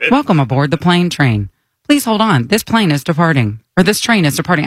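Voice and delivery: flat recorded train voice; monotone train announcer. Acted. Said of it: "She's so monotone".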